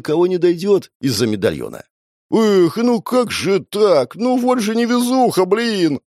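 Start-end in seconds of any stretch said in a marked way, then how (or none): 2.3-6.0 высоко и протяжно, наигранно; изобрази жалость с насмешкой; издевательское сочувствие. Acted. (наигранное сочувствие)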